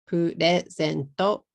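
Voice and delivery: "purezento" with added Japanese vowels; katakana pronunciation. Shown as a demonstration. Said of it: "So you don't want to say".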